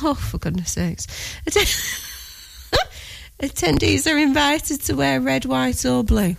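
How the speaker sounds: giggling mid-sentence; can't stop laughing. Real, not acted. Cracks up reading advert.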